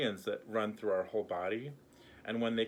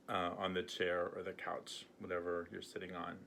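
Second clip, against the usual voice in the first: gently guiding, unhurried with long pauses; guided meditation. Acted. Healer guiding viewers to let go, calm meditation voice. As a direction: lead a grounding exercise, leaving room to breathe.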